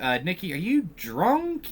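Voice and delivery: mock puzzlement, stretched and rising at the end; puzzled Bear. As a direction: imitate a wary, baffled question. Voices Bear's puzzled question to Nikki.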